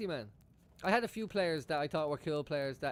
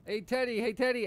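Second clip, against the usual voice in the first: loud call across a press room, up high; 6 semitones higher, 6 dB louder than usual. Retold or imitated. Reporter in the back calling the player, loud. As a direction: shout his name to get his attention.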